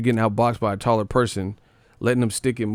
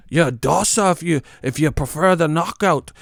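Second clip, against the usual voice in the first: arguing with chat; 6 semitones higher, 4 dB louder than usual. Real, not acted.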